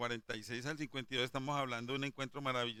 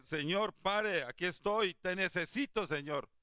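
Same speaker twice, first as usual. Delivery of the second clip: loud, high cry to the Lord; pleading call; 5 semitones higher, 4 dB louder than usual. Pretend. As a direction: call out to him, begging him to stop. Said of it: "Hay que decirle".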